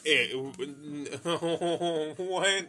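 sputtering no through laughter; half laughing, half begging him to stop; laughing protest. Retold or imitated. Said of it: "I was like".

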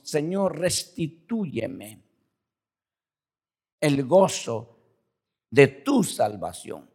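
very slow, measured petition; solemn scripture recitation. Acted. Preacher quotes David's plea to the congregation, slow and deliberate. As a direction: recite it slowly, phrase by phrase.

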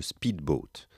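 "speedboat" said the English way, with an English accent. Shown as a demonstration. A French teacher showing off his English accent on "speedboat". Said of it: "vous pouvez apprécier mon accent anglais".

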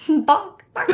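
laughing chicken squawks; squawk imitation. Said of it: "That's better".

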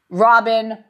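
drinking a shake while talking. Real, not acted. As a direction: talk around a sip of shake. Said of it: "Sorry, I'm drinking a protein shake".

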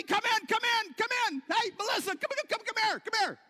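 high, loud, fast calling to the family; excited calling out. Pretend. Parent yelling to the family to come watch the baby, excited high calling. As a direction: call everyone over to come see, thrilled. You start yelling at everybody.

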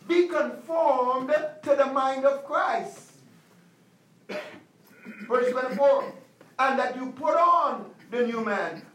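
measured preaching cadence. Acted. Pastor preaching to the congregation, measured sermon cadence. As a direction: expound the verse like a pastor. Preacher reading and expounding scripture.

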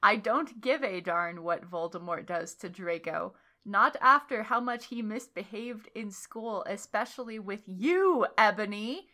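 low, mildly mean voice. A narrator's reading. Headmaster dismissing Ebony's plea, mean. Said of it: "he said meanly".

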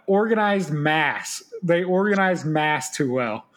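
slow, bad Scottish accent, half Australian; horrible Scottish accent. Quoting a rugby player on stopping the sneak, poor Scottish accent. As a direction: draw the words out in a botched Scottish accent. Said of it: "that was a horrible Scottish accent".

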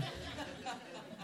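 a quick breathy laugh at himself. Real, not acted. Preacher laughs at his own confession.

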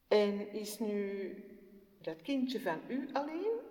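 put-on high, slow, wondering child voice; a little girl marvelling at a baby; delighted child. Jessica marvels at the baby, high and full of wonder.

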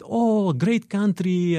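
drawn out like a stranger pleased by the answer; mock delighted stranger. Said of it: "And he said".

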